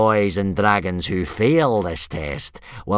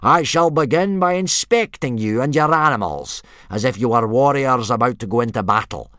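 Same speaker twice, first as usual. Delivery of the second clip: loud, raised parade-ground bellow; yelled orders; 8 semitones higher, 9 dB louder than usual. A narrator's reading. Instructor laying out the test to boys, yelling. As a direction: bark the rules at nervous recruits. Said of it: "yelled Gobber".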